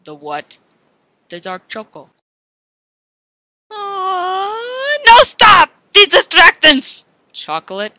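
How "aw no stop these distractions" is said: frantic protest. Acted. Reacting to chocolate temptation.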